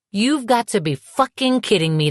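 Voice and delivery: high, indignant disbelief; outraged. A narrator's reading. Woman furious at her ex's statement, incredulous. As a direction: swear at him in disbelief.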